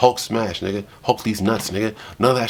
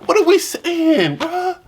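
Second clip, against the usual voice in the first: laughing; slower than usual. Real, not acted. Repeats the question through laughter.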